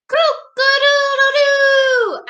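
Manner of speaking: high, loud, slow rooster crow. Shown as a demonstration. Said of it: "Again, again".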